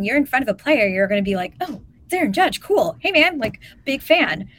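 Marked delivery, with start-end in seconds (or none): 1.6-4.5 lightly acted fan greeting, higher pitched; friendly starstruck fan. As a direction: play a fan casually hailing a star. Acted fan meeting a player.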